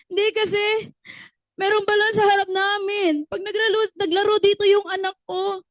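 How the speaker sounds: hammed-up tearful complaint; mock wailing woman. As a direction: wail it like a silly worried mother. Woman wails her worry.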